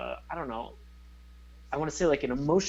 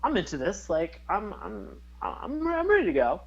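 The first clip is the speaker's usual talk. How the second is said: high, excited and eager; pumped up; 5 semitones higher than usual. Retold or imitated. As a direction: sound hyped for the show. Quoting own hyped reaction.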